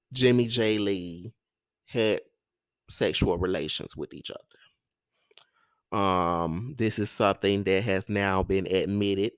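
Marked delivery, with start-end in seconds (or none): 1.9-6.0 hushed scandalous whisper. Real, not acted. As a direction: drop to a secretive whisper. Lowers voice for scandalous detail.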